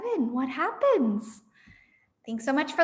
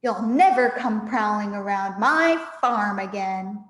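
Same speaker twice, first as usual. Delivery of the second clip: yelling; 4 semitones lower, 5 dB louder than usual. Acted. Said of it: "yelled Bogus".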